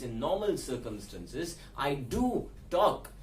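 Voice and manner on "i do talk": slow "I do talk" with "do" held long; stress on "do". Shown as a demonstration. Teacher shows the emphatic form, stressing "do". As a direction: hold "do", then place "talk" separately. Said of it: "So to stress the second verb".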